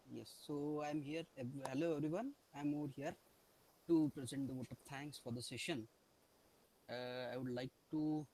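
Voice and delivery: very soft, far from the mic; faint voice off the mic; barely audible. Real, not acted. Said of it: "Sir, your voice is very low".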